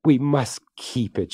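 bright, eager plea to keep it; light up with delight. Acted.

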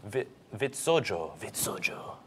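slow, softening Swedish-style Vitsojo; pretend Swedish accent. Shown as a demonstration. Host practising a product name for co-host, pretend Swedish accent. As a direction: try out the Swedish name, fading away. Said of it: "Sounds very legit when you".

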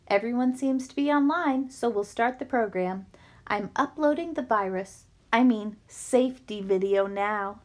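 robot voice over the loudspeaker. Acted. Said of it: "with the robot voice effect".

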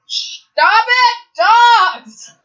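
high, loud scolding scream. Real, not acted. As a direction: scream an order at a barking dog. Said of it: "screaming into the mic".

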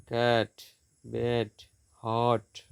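"ক্যাট, ব্যাট, হট" each closed off by its consonant; short vowels. Shown as a demonstration. Teacher showing closed syllables, short vowels in "ক্যাট, ব্যাট, হট". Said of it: "vowel ধ্বনি ছোট হয়".

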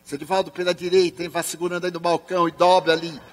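play-acted loud guidance to a blind man; speaking up. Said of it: "Fale alto para ele ouvir".

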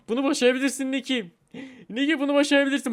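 high, loud encouragement; cheering someone on. Real, not acted. Player cheering Niki on before a jump, excited encouragement.

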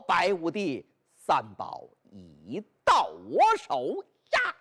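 low, slow, drawn-out triumphant boast; hero's calm boast. Acted. Zhan Zhao telling Bai Yutang the treasures are his, low slow boast. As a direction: savour every word like an opera hero.

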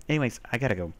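numb mouth after a filling; talking through a numb jaw; numb from the dentist. Real, not acted. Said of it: "wow, I can't even talk".

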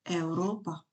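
"Европа" opening on EU as one syllable; EU diphthong. Shown as a demonstration. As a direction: start "Европа" with a joined EU glide.

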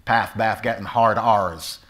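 Cornish "path, bath" with short vowels and hard R's; Cornish accent. Shown as a demonstration. Actor demonstrates talk in Cornwall, Cornish accent. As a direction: lean on the R's, Cornish style. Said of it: "That's how they talk in Cornwall".

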